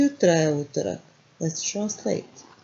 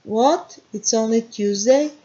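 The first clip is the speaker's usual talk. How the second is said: higher and louder, a let-down What?; dismayed surprise; 3 semitones higher, 4 dB louder than usual. Shown as a demonstration. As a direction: groan that the week has barely started. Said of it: "Negative feeling".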